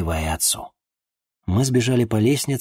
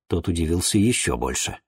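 plain reading voice

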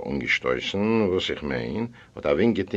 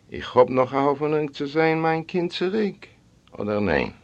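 higher, climbing hopeful question; anxious pleading question; 6 semitones higher than usual. Acted. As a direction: ask as a father pleading for his child. Father pleads for his daughter. (בעטנדיק, מיט האָפֿענונג)

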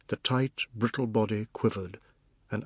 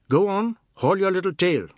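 loud, higher-pitched shooing; gruff dismissal; 9 semitones higher, 7 dB louder than usual. Acted. Fat man chases a boy away, loud dismissal. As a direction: send the kid packing, loudly.

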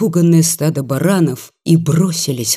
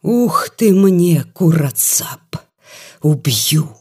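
put-on drunken threat; slower than usual. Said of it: "грозно тряс кулаком".

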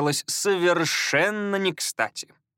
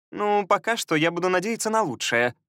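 chirpy high sweet lady; cartoon princess; 6 semitones higher than usual. A narrator's reading. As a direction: gush it eagerly, higher. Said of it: "заявила Элизия".

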